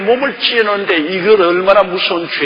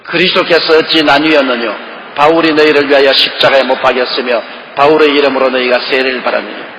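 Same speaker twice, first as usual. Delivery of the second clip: scripture reading; 4 semitones lower than usual. Shown as a demonstration. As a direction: read the Bible verse with weight, lower at the end. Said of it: "십삼 절요".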